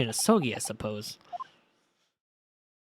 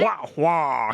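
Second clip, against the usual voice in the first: Waluigi wah. Acted. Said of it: "He's, like, deeper".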